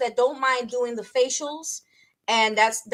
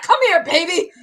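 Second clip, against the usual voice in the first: Amazon woman; 5 semitones higher, 6 dB louder than usual. Retold or imitated. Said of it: "and they're like".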